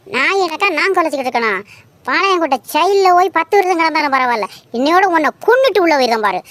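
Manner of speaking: fast furious rant. Acted. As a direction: fire it off in a rage. Heated quarrel threat. (வேகமான கோபப் பேச்சு)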